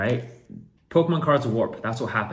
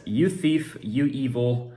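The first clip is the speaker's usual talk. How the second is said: louder mock all-caps rant; all caps message; 5 dB louder than usual. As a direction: read it like shouting in caps. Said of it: "in all caps".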